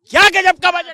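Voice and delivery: loud, high-pitched exclamation; excited praise. Real, not acted. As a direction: burst out loudly in admiration. Supporter exclaims praise of budget.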